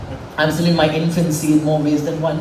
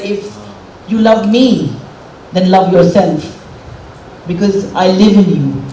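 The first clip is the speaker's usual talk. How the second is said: reading her father's words with a catch of real emotion; slower, fuller voice, moved by the words; heartfelt, holding back tears; emotional. Real, not acted. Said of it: "I'm sorry I'm getting emotional".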